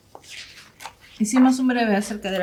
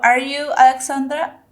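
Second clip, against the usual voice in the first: demo question; 5 semitones higher, 5 dB louder than usual. Shown as a demonstration.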